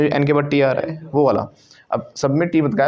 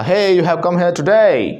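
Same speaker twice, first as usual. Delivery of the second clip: put-on slow, loud, higher Australian accent; 5 semitones higher, 5 dB louder, much slower than usual. Australian driver confronts an American after a crash, in a loud Australian accent. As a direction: call out a challenge in an Australian accent. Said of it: "एक आदमी Australia का".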